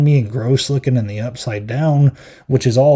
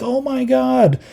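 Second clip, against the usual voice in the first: high-pitched fangirl gasp of words; squealed mock amazement; mock freak-out; 12 semitones higher, slower than usual. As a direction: imitate fans freaking out, pitched way up. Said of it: "freaking out, like".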